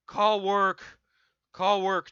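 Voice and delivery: loud, high, frantic repeated order; desperate command to call work; urgent shout. Retold or imitated. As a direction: yell it from the toilet so she hurries.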